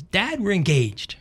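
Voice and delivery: put-on slow teen announcement. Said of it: "She says".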